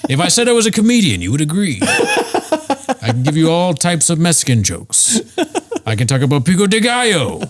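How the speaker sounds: high, fast comedian bit with a laugh; Patton Oswalt bit. Pretend. Riffing stand-up jokes to his cohost, high and quick. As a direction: riff like a stand-up doing a bit. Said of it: "doing a Patton Oswalt".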